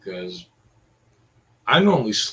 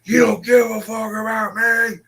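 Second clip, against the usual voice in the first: much higher, whiny mock voice trailing into blah blah; mocking her whine; 11 semitones higher, 6 dB louder than usual. Mocking the roommate's endless complaint, high whiny voice. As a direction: sneer it in a high nagging whine. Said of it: "You're the one that keeps going".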